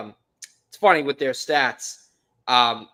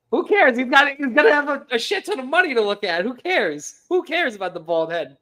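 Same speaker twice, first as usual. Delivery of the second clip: high, loud "who cares" rant; exasperated outburst; 10 semitones higher, 5 dB louder than usual. Real, not acted. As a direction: burst out in high-pitched exasperation. Exasperated banter about Cohen's bald head.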